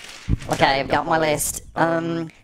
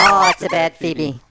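laughing scold; 6 dB louder than usual. Real, not acted. Scolding the sister while laughing.

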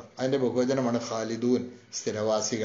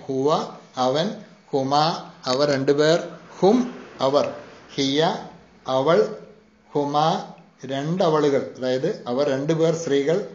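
slow, careful recital of ഹുവ and the rest of the list; the teacher repeats the pronoun list slowly for the students; slower repeat; slower than usual. Shown as a demonstration. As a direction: say ഹുവ, ഹുമ, ഹും, ഹിയ, ഹുന്ന slowly, one by one, for learners to copy. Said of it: "ഒന്നുകൂടി പറയാം".

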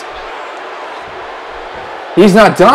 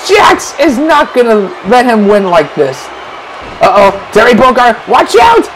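excited commentator yell; 8 semitones higher than usual. Acted. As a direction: lose it over the kick-out. Kick-out surprise, shouting commentary.

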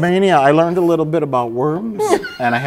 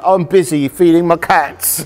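light New Zealand accent impression; 2 semitones higher than usual. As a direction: toss it off in a Kiwi accent. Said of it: "the New Zealand accent".

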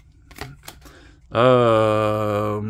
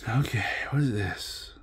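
whispered puzzled; 7 dB quieter than usual. Real, not acted. Startled by odd card.

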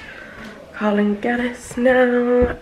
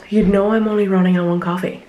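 breathless after climbing stairs; panting a little between words; out of breath; 5 dB louder than usual. Real, not acted. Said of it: "I'm out of breath after going up the stairs".

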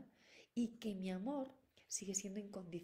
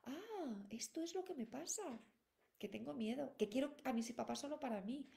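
higher voice, a dawning "Ah" of understanding; child realizing; 3 semitones higher than usual. Retold or imitated. A child naming its jealousy to itself, higher voice and realization. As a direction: voice a child who finally gets what it feels. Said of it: "es como".

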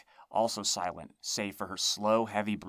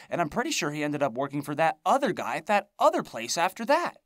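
rambling crone; 7 semitones higher, 5 dB louder than usual. A narrator's reading. Rambling hag voice climbing.

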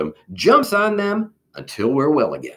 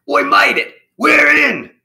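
loud, high triumphant cry; cheering; 6 dB louder than usual. A narrator's reading. Germs celebrate getting inside, cheering. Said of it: "They all cheered".

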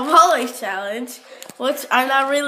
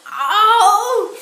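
laughing yelp; 8 semitones higher, 5 dB louder than usual. Real, not acted. Mouth burning from hot food.

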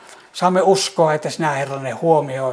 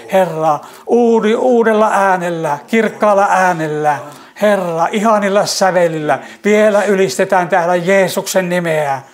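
fervent praise; 3 semitones higher than usual. Real, not acted. Praying to the Lord for new songs, fervent rising praise. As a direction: lift the voice in swelling praise.

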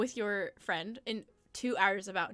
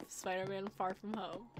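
tag; 7 dB quieter than usual. Retold or imitated. Voices own past daydream.

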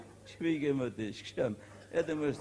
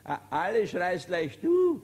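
slow punchline cracking up with laughter, louder; laughing; 4 semitones higher, 7 dB louder, slower than usual. Real, not acted. Teller delivering the punchline to listeners, laughing. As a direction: laugh your way through the line. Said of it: "laughing through the punchline".

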